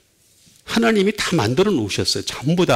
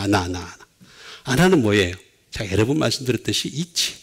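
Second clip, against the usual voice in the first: ordinary delivery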